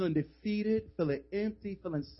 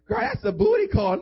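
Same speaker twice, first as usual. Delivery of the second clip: much higher, louder gossipy friend; high girlfriend voice; 13 semitones higher, 6 dB louder than usual. Retold or imitated. Roommate calling out to friend leaving, high pitched. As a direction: squeal at her friend.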